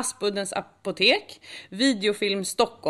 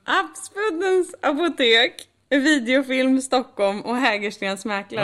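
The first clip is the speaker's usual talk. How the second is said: high, slow and deliberate, every name spelled out; patient, slowed-down re-read for the doubting co-host; slow careful repeat; 6 semitones higher, 5 dB louder, slower than usual. Shown as a demonstration. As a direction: read "Aspuddens apotek" slowly and pointedly, as if to a child. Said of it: "Vad sa du?".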